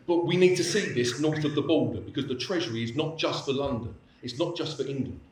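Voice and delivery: emphatic imitation of a Highland accent; hard Highland accent. Proud Highlander addressing the class, imitated Highland accent. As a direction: lightly put on a Scottish Highland accent. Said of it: "in very hard accent".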